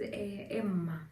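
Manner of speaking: soft, understated greeting; calm, collected husband. Retold or imitated. Husband walking into the clinic room, calm and soft. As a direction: lightly imitate a cool, composed husband. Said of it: "cool and collected".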